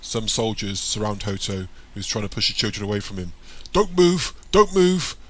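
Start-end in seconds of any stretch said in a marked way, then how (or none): 3.7-5.2 loud, high soldier's command; urgent repeated yell; shouting. A narrator's reading. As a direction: shout a warning to freeze. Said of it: "a soldier shouts at Hoto".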